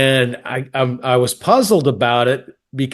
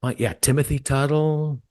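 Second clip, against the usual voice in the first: chill voice; 6 dB quieter than usual. Retold or imitated. Caller calmly stating his name to phone rep, chill voice. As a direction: keep it cool and quiet to the phone rep. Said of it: "my chill voice".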